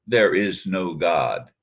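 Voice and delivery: slow, measured emphasis on each word; emphatic. Retold or imitated. Quoting a friend's denial of God, emphatic. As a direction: quote it firmly and slowly, without raising the voice. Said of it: "when she says emphatically".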